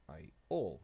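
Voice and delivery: Iole said "eye-OLE", weight on the end; shifted emphasis. Shown as a demonstration. Player testing syllable stress, Iole as "eye-OLE". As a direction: split Iole and stress the second part. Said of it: "putting the emphasis on the wrong syllable".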